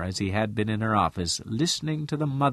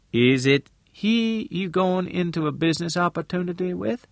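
halting, preoccupied; 9 semitones higher than usual. A narrator's reading. Missus Lane asking Al about a business deal, halting and preoccupied. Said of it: "In a halting, preoccupied voice, she said".

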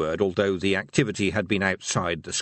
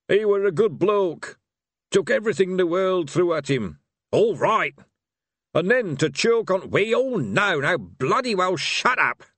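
put-on gruff old barbarian; 9 semitones higher, 4 dB louder than usual. A narrator's reading. Truckle gruffly ending the talk.

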